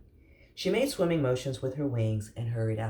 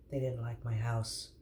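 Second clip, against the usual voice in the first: quieter, sad murmur; 6 dB quieter than usual. Acted. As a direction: say it with quiet disappointment. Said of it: "he said sadly".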